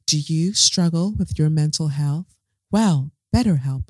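hammed-up ad-read voice; mock ad production. Podcaster imagining a whole sponsor production, hammed-up ad read. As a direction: pitch it like a mock commercial presenter. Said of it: "come back in and be like".

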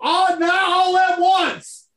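teasing a friend with a whiny plea; mocking Brian. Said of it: "let me do my impression of you".

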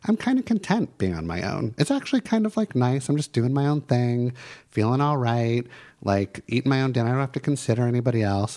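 a touch of contentment. Shown as a demonstration.

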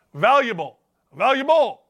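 "Valuable" punched as one word, pitch jumping on the repeat; emphatic repetition. Shown as a demonstration. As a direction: drive "Valuable" home, rising in insistence. Repeating the key word at listeners.

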